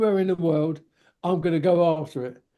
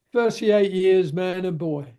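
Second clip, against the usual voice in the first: lightly voiced old hand stating his long service; old workmate's reply. Old welder answering the young man's question, lightly acted slow pride.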